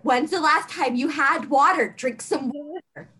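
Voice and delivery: lightly acted nagging mom; mom friend. Mom friend pestering Lark to hydrate, lightly nagging. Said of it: "Ryder's a mom friend".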